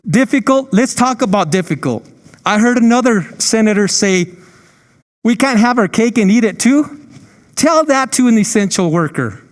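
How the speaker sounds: impassioned, indignant pushback, pitch up; fired up and indignant, pressing the point; getting emotional. Real, not acted. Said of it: "I'm getting emotional here".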